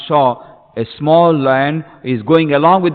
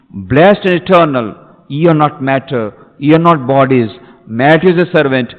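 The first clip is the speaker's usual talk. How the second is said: rousing oration; 3 semitones higher, 4 dB louder than usual. Acted. Quoting Vivekananda's call to the lions, stirring declamation. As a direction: declaim it in ringing, separate phrases.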